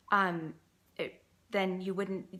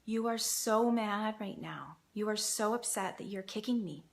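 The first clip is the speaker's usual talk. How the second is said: empathetic demo line; 3 semitones higher than usual. Shown as a demonstration. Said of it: "You respond to the feeling".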